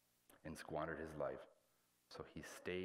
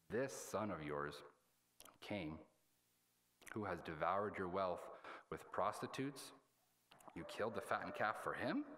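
put-on indignant older son. Resentful elder son complains to his father about his brother, indignant. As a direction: protest with stressed, aggrieved disbelief.

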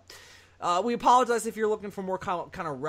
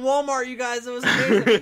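gushing housewife voice; a light touch of a gushing housewife; seventies housewife; 3 semitones higher, 8 dB louder than usual. Acted. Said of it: "You sound like a housewife".

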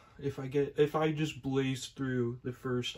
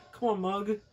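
much higher, out-of-breath urging; panting; 7 semitones higher than usual. Acted. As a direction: gasp it out on the run. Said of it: "panted Cuphead".

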